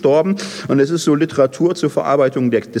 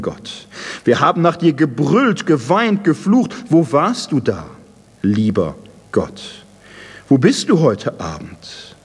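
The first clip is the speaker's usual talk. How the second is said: bitter reproach. Acted. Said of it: "Es wird ihm vorgehalten".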